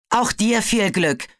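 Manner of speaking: high, slow call after someone leaving. A narrator's reading. Webbs calls a slow high farewell after Crocodile. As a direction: send a farewell after her. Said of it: "rief Webbs ihr nach".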